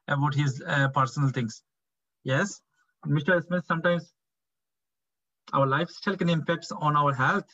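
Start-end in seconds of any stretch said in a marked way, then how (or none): 2.2-7.5 gentle explaining. Shown as a demonstration.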